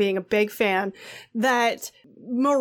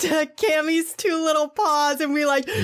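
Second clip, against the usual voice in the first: excited; 2 semitones higher than usual. Acted. Excited stunt cheer.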